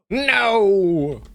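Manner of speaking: loud, high cry of dismay; real anguished no; dismayed shout. Real, not acted. Unit flees the fight.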